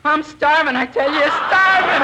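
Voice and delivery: hammed-up starving prospector; old prospector voice. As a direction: plead like a starving old miner. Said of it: "You're going to be an old prospector".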